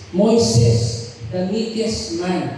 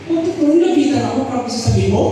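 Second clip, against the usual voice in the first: surprised retort; 3 semitones higher, 3 dB louder, faster than usual. Retold or imitated. Startled by rehearsed prophecy.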